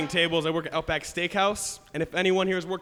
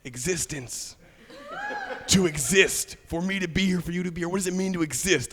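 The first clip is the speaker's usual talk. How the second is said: stoner voice. Retold or imitated. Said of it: "like hanging out with a pothead".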